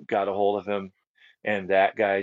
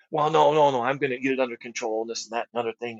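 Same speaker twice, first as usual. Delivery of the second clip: higher, hurried, flustered excuse-making; mock excuses; 4 semitones higher, faster than usual. Husband dodging the question about telling his wife, hurried and flustered. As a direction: brush the question off fast. Man makes excuses when confronted.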